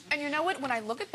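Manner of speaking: talking through a bite of cucumber; chewing while speaking; mouth full. Real, not acted. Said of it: "I'm talking with cucumber in my mouth".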